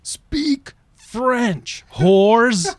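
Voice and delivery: high, loud mock yell; mock old lady yell. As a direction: bark it like an outraged old lady. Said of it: "she's like".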